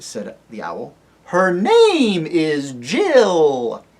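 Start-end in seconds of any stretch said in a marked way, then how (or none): 1.3-3.8 slow owl hoot. Acted.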